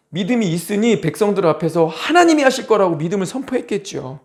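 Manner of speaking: usual speaking voice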